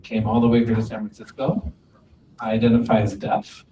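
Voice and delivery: usual speaking voice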